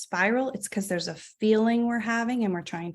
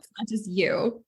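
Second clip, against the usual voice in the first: whisper. Real, not acted. Reassures the other doctor softly.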